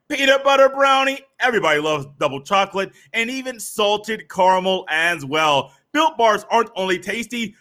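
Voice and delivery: upbeat sponsor read. Acted. Host reading a sponsor ad to listeners, upbeat. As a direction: sell the snack bar to the listeners.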